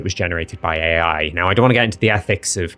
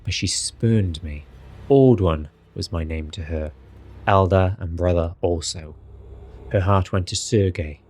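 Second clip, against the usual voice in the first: Strahd voice. Acted. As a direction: read it as seriously and dramatically as possible. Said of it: "I'll do it in my Strahd voice".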